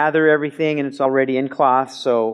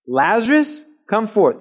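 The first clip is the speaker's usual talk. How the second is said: higher, ringing command; firm command; 7 semitones higher than usual. Acted. Jesus commanding, not chanting a spell, ringing out. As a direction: order him out plainly. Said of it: "It's a command".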